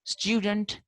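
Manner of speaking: student with a y glide, "styoo-dent"; British pronunciation. Shown as a demonstration. Teacher showing how the Britishers say it, British pronunciation of student. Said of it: "the Britishers say".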